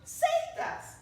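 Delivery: very high, loud, slow cheer with a laugh; cheering shout. Acted. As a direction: celebrate the rescue at full voice. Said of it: "Everyone shouted".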